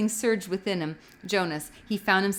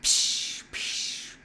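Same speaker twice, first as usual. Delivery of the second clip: firing noise. A narrator's reading. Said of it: "firing noise".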